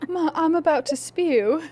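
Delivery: put-on high, slow little kid with British accent; child's British accent. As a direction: play a British-accented child whining to mom. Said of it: "they have those accents".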